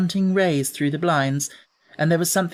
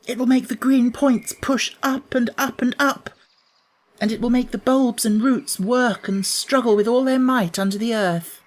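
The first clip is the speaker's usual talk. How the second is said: put-on much higher, eager young girl; picture the bulbs pushing up and be thrilled; joyful girl; 8 semitones higher than usual. Mary at the window imagines the garden waking, much higher eager voice.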